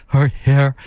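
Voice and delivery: slow, odd German-tinged stress; Herzog imitation. Host mimicking Herzog's German-accented narration. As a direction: drag each word like Herzog. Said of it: "He really says every word in a way".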